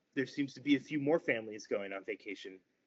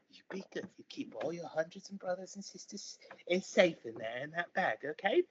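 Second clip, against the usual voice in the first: lightly higher fussing parent; frog parent; 5 semitones higher than usual. Acted. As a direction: send the child off with care. Frog parent to tadpole child.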